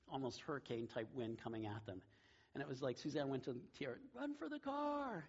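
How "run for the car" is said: high, drawn-out cry to run; hammed-up alarm call; overdramatized urgent cry. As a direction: play up the panic, stretching the words high. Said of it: "Maybe a little bit over dramatization".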